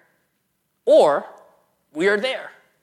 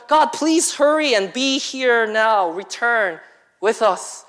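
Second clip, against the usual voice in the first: slow pleading; 4 dB louder, much slower than usual. Acted. Voicing Moses pleading slowly.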